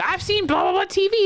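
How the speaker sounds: mumbled patient. Retold or imitated. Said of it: "He's like".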